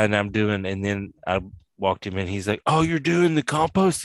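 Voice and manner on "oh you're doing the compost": much higher, eager question; mock-excited discovery. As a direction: retell a friend lighting up. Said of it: "He was, like, excited".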